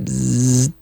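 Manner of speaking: imitated buzz of hair clippers. Teacher buzzing like clippers for the class. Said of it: "to clip with the machine".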